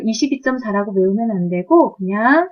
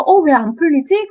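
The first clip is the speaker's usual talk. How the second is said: higher-pitched puzzled self-questioning; puzzled student; 5 semitones higher, 4 dB louder than usual. Acted. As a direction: act out a student getting stuck. Acts out a stuck student.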